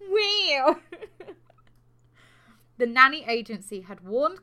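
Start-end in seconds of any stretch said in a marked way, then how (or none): 0.1-0.9 a high laughing wow. Real, not acted. Echoing her co-host's wow, high and laughing. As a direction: laugh through the word.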